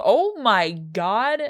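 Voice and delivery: surprised. Real, not acted. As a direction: stretch it out in sudden disbelief. Sees Jack as scarecrow.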